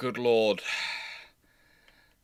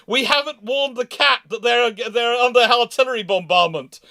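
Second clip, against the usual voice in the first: urgent radio call; 8 semitones higher, 5 dB louder than usual. Retold or imitated. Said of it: "call up going".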